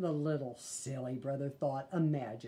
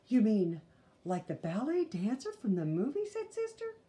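put-on little girl voice; 4 semitones higher than usual. Sister asks eagerly.

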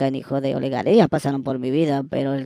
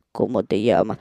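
man's voice; 6 semitones lower than usual. Retold or imitated. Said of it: "me salió la voz de hombre".

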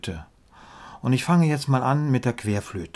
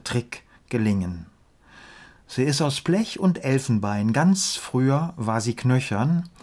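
measured verse reading with pauses at line ends; deliberate, lilting rhymed delivery; poem recitation. Acted. Recites poem about the flute.

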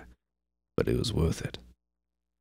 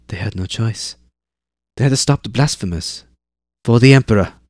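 put-on high girl, loud on the Emperor; matter-of-fact girl; 4 semitones higher, 6 dB louder than usual. Zane defends the soldiers to Eivor, matter-of-fact. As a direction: recite it like a lesson learned. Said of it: "perfectly matter-of-fact tone".

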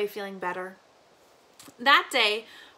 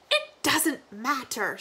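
put-on old granny voice; slower than usual. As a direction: drift off like a confused grandmother.

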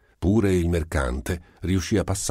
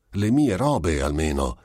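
exclaiming; 2 semitones higher than usual. Acted. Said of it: "esclamò lo Schroeder".

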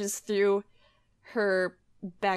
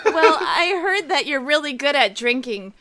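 gushing through giggles; laughing flattery; 5 dB louder than usual. Acted. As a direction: lay the praise on thick, laughing. Sister flatters brother theatrically.

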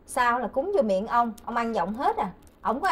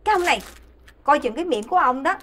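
scolding warning; 4 dB louder than usual. Acted. Wife warns irreverent husband.

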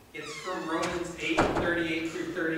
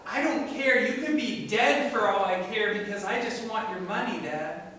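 rude son. Acted. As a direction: throw the words at your father. Quoting the arrogant son.

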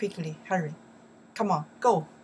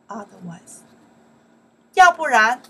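loud drill; 3 semitones higher, 14 dB louder than usual. Shown as a demonstration. Teacher drilling 要不然 for learners, loud. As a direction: model it loud for the class to repeat.

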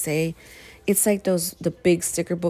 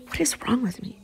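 whisper; 8 semitones higher, 3 dB quieter than usual. Real, not acted. Laughing at own impatience.

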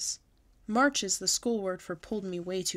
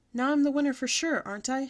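eager Lucille; 6 semitones higher, 5 dB louder than usual. A narrator's reading.

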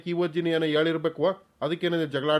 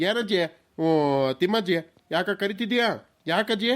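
sweet-talking to dodge a scolding; fake sweet; 3 semitones higher than usual. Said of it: "ನಾಟಕಗಾರ ನನ್ ಮಗನೇ".

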